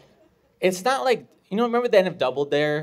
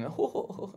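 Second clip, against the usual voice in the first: higher, softer hooting sound; mock crowd whooping; 5 semitones higher, 8 dB quieter than usual. Comedian imitating a cheering crowd, soft hooting. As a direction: imitate a crowd going "hoo". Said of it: "or going".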